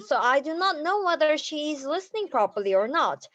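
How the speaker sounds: steady, matter-of-fact report with numbers; factual report. Shown as a demonstration. Demo of reporting to Star Master Cha with numbers, matter-of-fact. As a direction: lay out the facts calmly. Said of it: "but talk with numbers".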